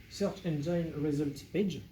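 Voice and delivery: slow, careful English accent on the acronym. Shown as a demonstration. SEO teacher expanding SERP for viewers, in a self-mocking English accent. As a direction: spell out the English words in a proud English accent. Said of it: "vous noterez mon accent anglais magnifique".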